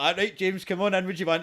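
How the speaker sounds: put-on Chukter accent. Police inviting James in, imitated Chukter accent. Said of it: "I'm doing a Chukter accent for the Welsh".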